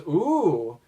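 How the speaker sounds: bright mock-excited ooh; a quick, eager little ooh. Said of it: "in a very excited voice".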